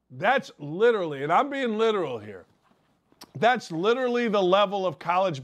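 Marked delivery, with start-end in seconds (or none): none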